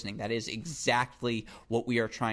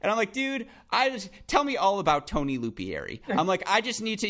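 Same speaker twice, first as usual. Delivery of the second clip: giggling, voice pitched way up; laughing through the story; 9 semitones higher, 4 dB louder than usual. Real, not acted. Retelling meeting the coach, laughing.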